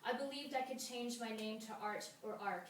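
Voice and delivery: measured verse with pauses between images; even, deliberate poem recital; poetry reading. Acted. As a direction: read each line as verse, letting the endings fall.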